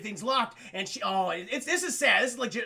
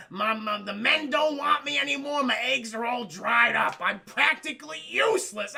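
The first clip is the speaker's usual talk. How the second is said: hammed-up lament, higher and louder; mock whiny self-pity; 4 semitones higher, 5 dB louder than usual. Streamer mocking the character's lament, whiny. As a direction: whine it like a pitiful heroine.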